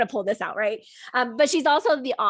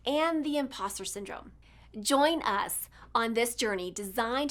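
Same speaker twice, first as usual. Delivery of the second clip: measured, earnest intro read; polished, inspirational host introduction; scripted podcast intro; 4 dB quieter than usual. Acted. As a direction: read a motivational show opener with deliberate pauses.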